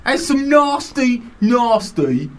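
Cockney mate. Acted. Cockney mate reading the listener's email, building to a slow Cockney shout. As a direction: ham up a Cockney geezer reading the complaint. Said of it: "your Cockney mate".

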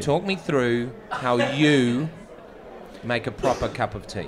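slow, deliberate repeat of the question; slow emphatic quizmaster. Shown as a demonstration. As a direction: spell the question out slowly. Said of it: "repeats question".

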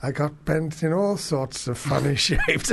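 lightly voiced senile priest, slow to start; a hint of a doddery old priest reminiscing. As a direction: begin slowly, like a mildly confused old cleric. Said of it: "senile priest".

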